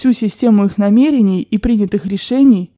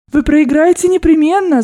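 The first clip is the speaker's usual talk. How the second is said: chirping; 7 semitones higher, 3 dB louder than usual. A narrator's reading. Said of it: "защебетала мадемуазель Бланш".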